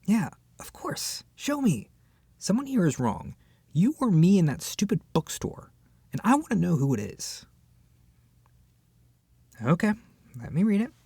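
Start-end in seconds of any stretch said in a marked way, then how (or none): none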